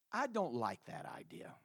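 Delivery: low, hushed objection; soft, reluctant complaint; mock disapproval. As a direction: grumble it almost in a whisper.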